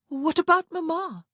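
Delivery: high and loud insistent question; demanding. A narrator's reading. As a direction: press them hard for an answer. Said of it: "Prudence demanded".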